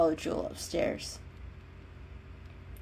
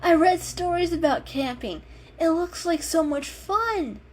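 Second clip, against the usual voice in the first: excited kitten; 8 semitones higher, 4 dB louder than usual. Acted. Mocha's eager voice.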